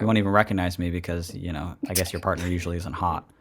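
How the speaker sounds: low, softened sultry put-on; lightly put-on hot podcast voice; sexy voice. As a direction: keep it low, playing at hot. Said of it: "you've got your sexy voice on now".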